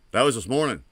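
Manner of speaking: to the listeners, insisting a bit harder, mock outrage. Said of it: "I was like".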